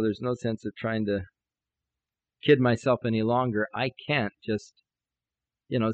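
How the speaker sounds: low, halting, resigned thinking aloud; discouraged. Retold or imitated. Preacher recalling his money worries, discouraged. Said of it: "I was just really discouraged".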